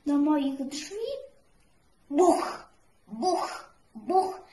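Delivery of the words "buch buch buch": banging knock, each buch loud and hard. A narrator's reading. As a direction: knock out three loud bangs on the door. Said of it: "Ktoś gwałtownie zakołatał". (głośne pukanie, trzy mocne buch)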